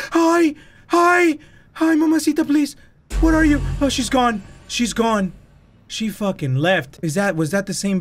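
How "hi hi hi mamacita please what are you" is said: mock greeting. Greeting the ghost mockingly.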